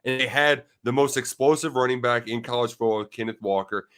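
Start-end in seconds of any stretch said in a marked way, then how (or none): 0.8-3.1 mild emphasis on the word "explosive"; stress on explosive. Real, not acted. Analyst qualifying last year's running game, light stress on "explosive". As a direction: lean a little on "explosive". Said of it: "really putting the emphasis on the word explosive".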